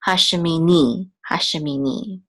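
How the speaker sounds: hashemini with the stress on the final NI; last-syllable stress. Shown as a demonstration. Teacher showing where the accent mark falls, hashemi-NI end-stressed. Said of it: "The accent is on the last syllable".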